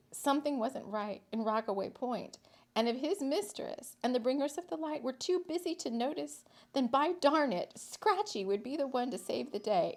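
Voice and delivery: lively storyteller reading; story narration. A narrator's reading. Reading a whimsical town story to listeners, lively narration. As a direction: tell the tale with a light touch.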